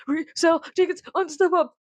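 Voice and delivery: lightly voiced snide cartoon computer; hint of a haughty machine voice; sassy computer. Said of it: "that sassy twink ass fucking computer".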